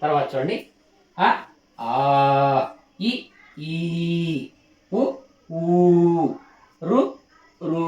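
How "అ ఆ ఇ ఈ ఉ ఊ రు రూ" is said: each pair said short then drawn out; teaching vowel length, short then long. Shown as a demonstration. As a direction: contrast ఆ clipped with ఈ stretched long. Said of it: "ప్రతి రెండవ అక్షరము దీర్ఘం".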